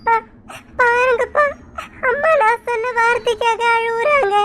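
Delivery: tearful, with a catch and sobs; a crying daughter begging her father, tearful. Acted. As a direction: plead to father through tears. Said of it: "உன்னால பூமாரி அழுகுறா பாரு".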